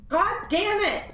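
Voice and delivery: high, loud yell of frustration; frustrated outburst. Real, not acted. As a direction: blow up at the screen. Frustrated at game.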